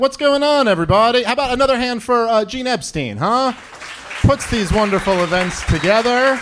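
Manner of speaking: big, high, loud emcee welcome; hyped-up crowd greeting. Real, not acted. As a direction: pump up the room like a host. Comic opens set, hypes crowd.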